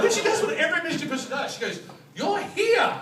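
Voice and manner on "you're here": high, loud amazed exclamation; mock freak-out. Michigan worker to lost tourists, mock freak-out. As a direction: shout it as a hammed-up revelation. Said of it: "She's freaking out".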